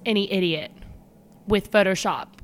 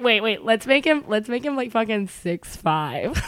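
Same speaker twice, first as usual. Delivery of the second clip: imitating joking parents; 2 semitones higher, 3 dB louder than usual. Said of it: "semi-humorous as they're doing it".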